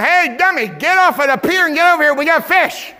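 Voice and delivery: loud, high yell across the water. Retold or imitated. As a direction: holler them over to the boat. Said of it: "they're yelling".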